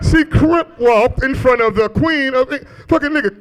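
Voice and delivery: high, slow, laughing disbelief; amazed laughing. Real, not acted. Comic marveling to the crowd, high amazed laughter.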